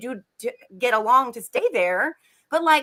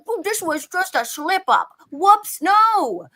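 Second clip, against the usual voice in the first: mocking Weiner; 3 semitones higher than usual. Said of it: "makes it look like".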